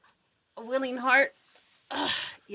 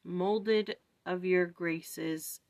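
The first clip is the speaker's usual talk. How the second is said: slow, solemn reading of a prayer poem; slower than usual. Acted. Reading the bee's prayer to viewers, slow and solemn. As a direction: read each line slowly like a prayer.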